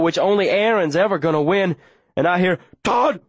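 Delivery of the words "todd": high, short dog-like bark; ferocious bark. A narrator's reading. Dog coming to his master's rescue, high ferocious bark. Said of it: "barked in a voice so ferocious".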